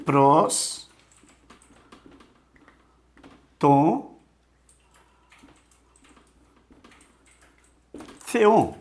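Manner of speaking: Pros, Tom, Theon, each said alone with long pauses; slow Greek dictation; word by word. Shown as a demonstration. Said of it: "Olha só".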